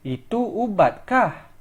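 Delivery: "ubatkah" carries the main emphasis; stress on ubatkah. Shown as a demonstration. Teacher showing students the emphasis on ubat. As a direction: lean on "ubatkah" at the end. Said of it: "Emphasis on ubat".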